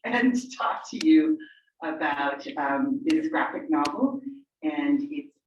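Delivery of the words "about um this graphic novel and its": stretched out, pausing between words; real slow, halting stalling with long gaps; talking slowly. Real, not acted. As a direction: stall for time, one word at a time. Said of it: "I'm talking slowly".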